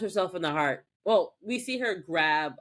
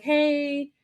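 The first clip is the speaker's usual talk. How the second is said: chirpy coworker; 9 semitones higher than usual. Retold or imitated. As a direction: ask sweetly and fast. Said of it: "she was like".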